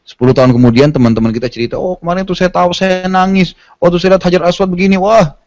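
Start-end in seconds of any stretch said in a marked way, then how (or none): 1.8-5.4 a higher, eager boasting friend; mock excited boast. Jemaah menirukan teman yang pamer cerita haji, nada bersemangat dibuat-buat. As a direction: brag about the hajj with mock wonder.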